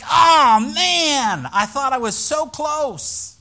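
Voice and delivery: mock disappointment. Pastor disappointed, prayer deflected.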